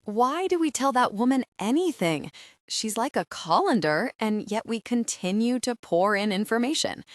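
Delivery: muttered. A narrator's reading. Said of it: "Bethany muttered".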